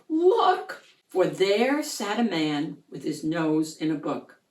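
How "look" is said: excited cry. Acted. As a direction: point and shout it out. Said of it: "Peter cried".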